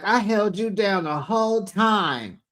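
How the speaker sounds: mock yell at a friend; imitated shout. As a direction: yell it like she's hurt and furious. Wendy yelling during fight.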